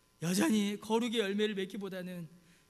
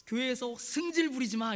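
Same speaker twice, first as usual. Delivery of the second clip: mildly cross imitation of a scolding pastor; mock telling-off of junior pastors; 화내는 목사님 흉내; 3 semitones higher, 3 dB louder than usual. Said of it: "이러시면 막 화를 내세요". (살짝 야단치는 흉내)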